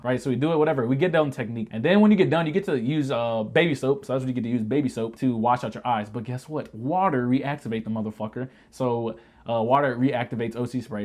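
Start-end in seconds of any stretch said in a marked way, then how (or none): none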